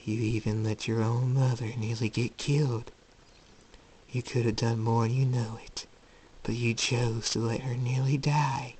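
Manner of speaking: understated, insinuating blame; accusing inner voice. Acted. Voice in Jacob's head about his mother, insinuating. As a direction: needle quietly, breathier at the end.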